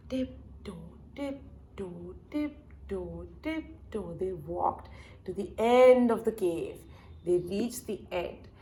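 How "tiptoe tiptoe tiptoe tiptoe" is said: soft, careful steps in words; hushed tiptoeing. Acted. Storyteller tiptoes the group through the cave, hushed. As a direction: say it softly, one careful step at a time.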